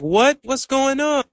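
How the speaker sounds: jumping high in alarm, mock panicked; startled panic. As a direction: retell the hunters' shock, voice shooting up.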